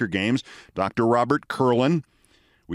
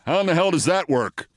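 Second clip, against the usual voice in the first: incredulous outburst; 4 semitones higher than usual. Retold or imitated. Matthau, eyes flared, baffled outburst.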